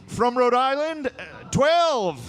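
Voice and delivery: put-on a fussy old lawmaker, unsure; hesitant congressman. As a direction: nervously offer the number. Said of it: "some guy coming up first, like".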